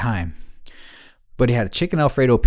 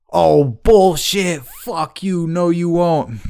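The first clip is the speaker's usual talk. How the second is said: higher, drawn-out mock outrage; mock defiant retort; 4 semitones higher, much slower than usual. Friend retelling a woman's comeback in an argument, mock defiant. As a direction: drag out the comeback, imitating her scorn.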